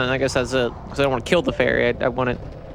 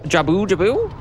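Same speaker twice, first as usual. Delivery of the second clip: "Jabu Jabu?" with the "boo" stressed, lifting higher at the end; higher, rising query with weight on "boo"; 4 semitones higher than usual. Shown as a demonstration. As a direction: try out ja-BOO ja-BOO as a question. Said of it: "The emphasis on the ooh?".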